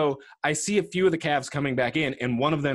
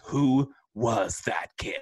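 slow, drawn-out wondering; baffled coach; 4 semitones lower, much slower than usual. Retold or imitated. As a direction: stretch out a baffled question. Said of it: "he has to be like".

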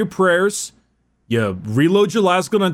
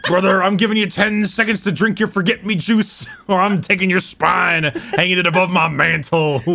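wrestling promo voice. Retold or imitated. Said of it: "a wrestling promo".

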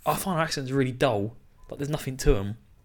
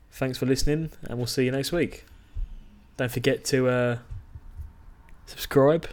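halting sign-off that loses its nerve; backing out; 4 dB quieter than usual. Real, not acted. Closing the podcast episode for listeners, faltering at the end. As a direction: start the outro, then falter into pauses. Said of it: "you backed out at the end".

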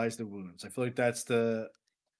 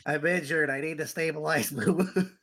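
pinched nose voice; nasal plugged nose; 3 semitones higher than usual. Acted. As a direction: say it holding your nose. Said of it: "I plugged my nose too".

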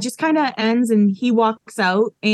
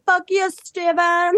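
mock angry retort; 7 semitones higher, slower than usual. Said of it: "she's like".

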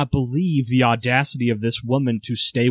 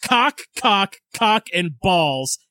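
slow, higher, mock-furious insults; hammed-up drunken rant, dragging the words; drunken rage; 3 semitones higher, slower than usual. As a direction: read your drunk notes like you're still seething. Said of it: "read you exactly what I wrote in my drunken state".

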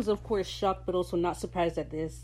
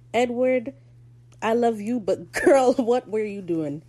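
excited exasperation; 4 semitones higher, 5 dB louder than usual. Real, not acted. Fond exasperated address to character.

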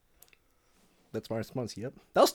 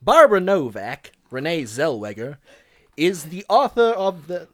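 put-on uncertain stab at a Southern accent; attempted Southern accent; 4 dB louder than usual. Podcaster reading a review, attempted Southern accent. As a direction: try a Southern accent, not quite landing it. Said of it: "give it a go with the accent".

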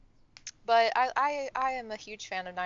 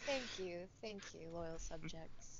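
mock royal; 17 dB quieter, slower than usual. Playing royalty after "all rise.

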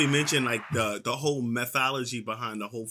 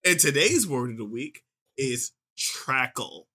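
announcing the word; slower than usual. Shown as a demonstration. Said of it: "did I pronounce that right".

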